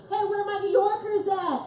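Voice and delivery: rally the audience with a lifted voice; calling to crowd. Retold or imitated. Comic as J-Lo hyping her concert crowd, calling out.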